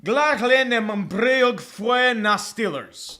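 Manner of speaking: slow, mangled attempt at Gaelic; butchered Gaelic. Real, not acted. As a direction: stumble grandly through unfamiliar Gaelic words. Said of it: "butcher the fuck out of this".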